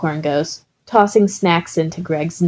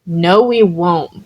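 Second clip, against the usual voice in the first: hissed; slower than usual. Acted. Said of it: "Bakugo hissed".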